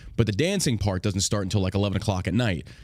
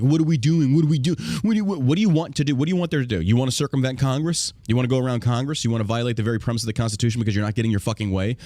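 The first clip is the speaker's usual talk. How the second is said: mock ranting troll; 2 semitones higher, faster than usual. Mocking his critics' angry rant to his listeners. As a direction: mimic an angry online troll, screaming. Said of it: "beating the ground and screaming at the sky".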